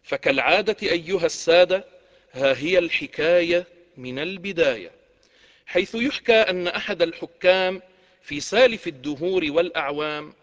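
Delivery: rhythmic rhymed storyteller opening; arabic cafe storyteller. A narrator's reading. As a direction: recite like a coffeehouse hakawati. Hakawati opening formula.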